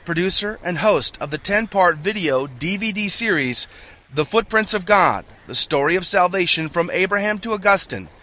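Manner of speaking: upbeat announcer read of guest bio; radio host intro. Real, not acted. Host reads formal guest intro.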